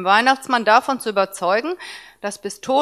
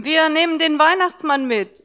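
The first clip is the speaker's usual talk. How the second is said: put-on high, happy child's call; boy cheerfully calling to mum; 7 semitones higher than usual. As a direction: call out gleefully. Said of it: "rief er fröhlich".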